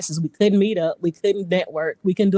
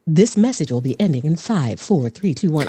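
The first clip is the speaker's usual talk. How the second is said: countdown like a recorded system message; automated voice; 3 semitones lower than usual. Shown as a demonstration. Demonstrating her room resets, automated voice. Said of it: "doing voices".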